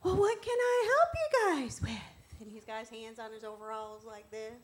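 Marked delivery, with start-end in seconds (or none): 0.0-2.4 high, slow, drawn-out folksy offer of help; chatty store worker. Acted. Meandering Home Depot man greeting two shoppers, high and leisurely. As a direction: stretch it out like an over-friendly clerk. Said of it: "seems like he wants to talk".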